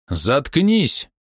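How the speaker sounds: sharp angry yell; angry shout. A narrator's reading. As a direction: snap it at him. Hero shouts at king.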